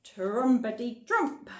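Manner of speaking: slow trumpeting; elephant trumpet. Acted. Reading the elephant's line to children, slow trumpeting. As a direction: trumpet it out slowly. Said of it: "said the elephant".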